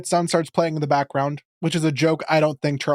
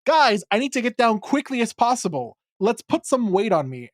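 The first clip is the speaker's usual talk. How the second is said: higher, hurried mock Steven; pitched up in a rush; excited Steven; 6 semitones higher than usual. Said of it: "Steven's like".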